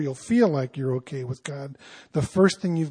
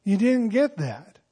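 puzzled Paul; 3 semitones higher than usual. Shown as a demonstration. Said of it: "But he says".

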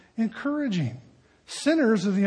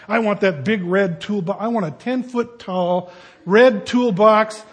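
louder, greedy excitement building; excited wanting; 6 dB louder than usual. Retold or imitated. Man reading tool catalog, loud excited craving. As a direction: gush over the toolbox.

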